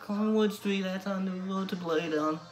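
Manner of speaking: sung in an attempted Newcastle Geordie accent. Vlogger covering Blaydon Races for his viewers, sung in a Geordie accent. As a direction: sing the folk song with a Geordie lilt, doing your best. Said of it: "I'll be trying this one in a Newcastle Geordie accent".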